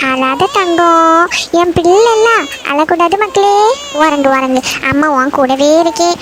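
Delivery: slow, drawn-out comforting; tender soothing. Acted. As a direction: lull the baby towards sleep. Mother hushes her crying baby.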